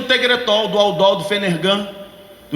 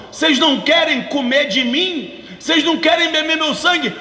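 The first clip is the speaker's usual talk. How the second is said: forceful shout; 4 semitones higher than usual. Acted. Pastor shouting Jesus' rebuke.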